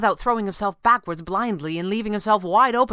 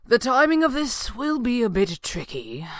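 tense warning; 6 semitones higher than usual. A narrator's reading. Hero warning mid-battle, raised voice.

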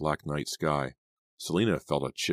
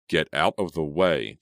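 warning; 3 dB louder than usual. Acted. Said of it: "Jake warned".

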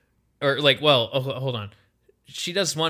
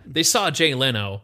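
repeated for a friend who missed it, a bit louder; plain repeat, said clearer; 4 dB louder than usual. Real, not acted. Answering a friend who asked what's that, clearer repeat. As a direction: say it again clearly so it lands. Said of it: "What's that?".

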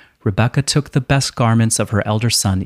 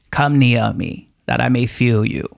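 put-on half-hearted old father voice; terrible Isaac voice. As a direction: lightly attempt a blind old dad. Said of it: "It's a terrible voice".

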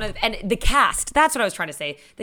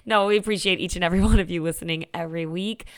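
1930s broadcasting voice; 5 semitones higher than usual. Pretend. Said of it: "a nineteen thirties broadcasting voice".

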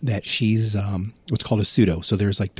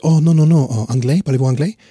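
higher, louder hasty brush-off; woman cutting him off; 7 semitones higher, 8 dB louder than usual. Retold or imitated. Montreal woman brushing off the Spanish speaker, higher and louder. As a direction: cut him off, wave him away. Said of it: "they'd be like".

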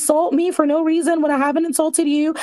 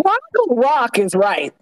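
laughing; 4 semitones lower, slower than usual. Real, not acted. Laughing at the Fraggle Rock joke.

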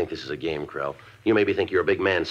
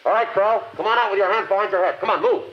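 shouted orders; 11 semitones higher than usual. Acted. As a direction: bark it across the hall. Ordering suspect out.

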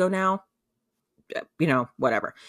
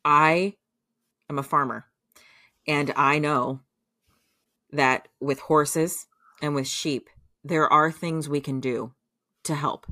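firm reassurance. Retold or imitated. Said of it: "He goes".

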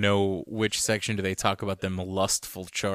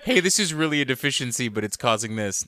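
mock sales pitch; 3 semitones higher, faster than usual.

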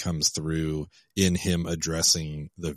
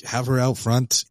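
raised-pitch retold order; mock phone demand; 6 semitones higher, 4 dB louder than usual. Caller demanding Sloane be brought out, mock commanding. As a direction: give the order in an imitation.

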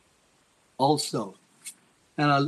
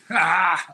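mocking guffaw; 3 semitones higher, 4 dB louder than usual. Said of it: "the most mocking, hilarious, guffawing".

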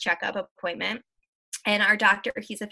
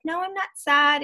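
higher-pitched mock denial; retold denial to child; 7 semitones higher, 4 dB louder than usual. Mother answering her young son while crying, retold denial. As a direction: deny it in a lifted voice, as retold to others.

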